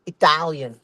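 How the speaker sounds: Italian in three punched syllables. Shown as a demonstration. Comic demonstrating how to say it, emphatic Italian. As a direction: mark out each syllable of Italian. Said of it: "in three syllables and loud".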